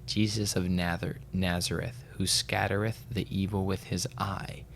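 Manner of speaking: slow, measured recitation with pauses; solemn book reading. Real, not acted. Podcaster reads a spiritual passage to co-host, solemnly. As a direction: read it slowly, phrase by phrase.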